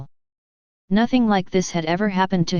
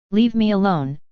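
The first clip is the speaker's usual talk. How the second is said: shouting. Acted. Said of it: "he shouted in a voice unlike his own".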